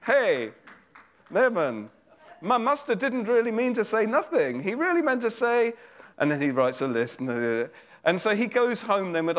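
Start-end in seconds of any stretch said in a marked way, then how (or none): 0.1-5.7 much higher, chirpy call with a laugh in it; hammed-up fawning servant calling after him; wheedling servant. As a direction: sweet-talk the rich man after him. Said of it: "that's my attempt at drama".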